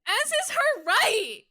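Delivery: emphatic agreement. Real, not acted. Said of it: "cheering Elle on".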